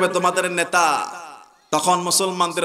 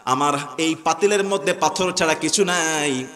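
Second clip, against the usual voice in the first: understated imitation of a crying mother; retold tearful plea. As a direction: lightly act out her helpless lament. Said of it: "বৃদ্ধা মহিলা কেঁদে ফেলে বলতেছে".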